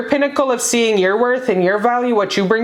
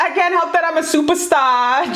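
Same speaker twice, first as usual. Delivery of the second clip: higher, sassy diva quote; quoting Jocelyn Hernandez; 5 semitones higher than usual. Retold or imitated. Reader repeats the star's catchphrase, sassy. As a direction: brag it like a star. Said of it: "she's like".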